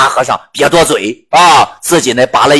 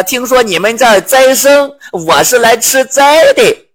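Zhu Bajie voice; 8 semitones higher than usual. Acted. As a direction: play the greedy pig monk asking for a meal. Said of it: "八戒就开始说了".

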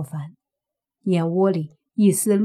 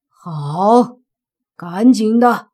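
curt, louder order to hurry; impatient command; 7 dB louder, much slower than usual. Acted. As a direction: snap it out, impatient. Sorcerer urging haste.

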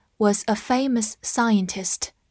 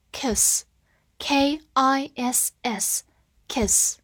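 whisper; 3 semitones higher, much slower than usual. Shown as a demonstration. Spelling drill whispered.

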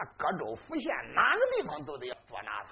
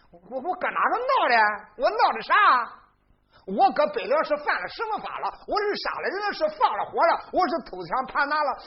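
loud protest; 7 semitones higher, 7 dB louder than usual. Acted. Yue Chao protests his innocence.

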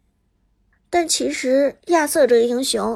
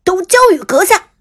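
heroic game announcer line; booming hero pick voice; 2 semitones higher, 8 dB louder than usual. Acted.

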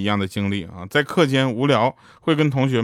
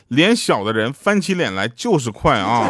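放慢的、带笑的揶揄; 假装吵架其实是在逗乐; 哥哥大声说. Retold or imitated. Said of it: "就听我哥大声地说". (哥哥慢悠悠地笑着揶揄嫂子)

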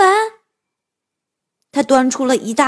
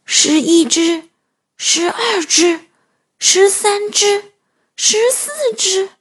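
slow counting; 6 semitones higher, slower than usual. Acted. Wolf counting piglets, drawn out.

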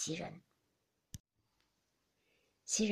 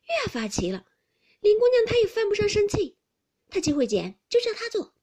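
put-on louder, higher, indignant girl; a hint of a young lady's outburst, louder; lightly acted exclamation; 12 semitones higher, 11 dB louder than usual. A narrator's reading. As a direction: exclaim in disbelief. Xiangyun exclaims about Lin.

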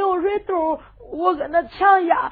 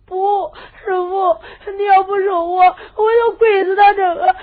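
tearful insistence; 3 semitones higher, 3 dB louder than usual. Acted. Disciple refuses to rise, begging.

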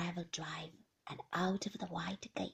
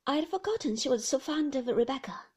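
slow; 4 semitones higher, 6 dB louder, faster than usual. Acted. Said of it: "said Beatrice slowly".

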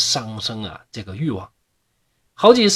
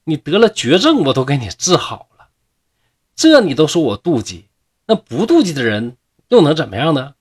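very indignant; 3 semitones higher, 5 dB louder than usual. Acted. Lianxiang angrily answering the man she cured. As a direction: throw his accusation back at him. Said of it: "这个莲香非常气恼地说".

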